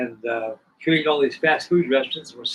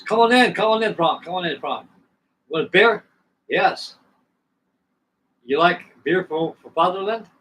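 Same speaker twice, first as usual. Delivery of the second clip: imitated German host, pitched up and calling out; German accent; 4 semitones higher, 4 dB louder than usual. German host inviting Frank in for beer, imitated German accent. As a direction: welcome a guest in a put-on German accent.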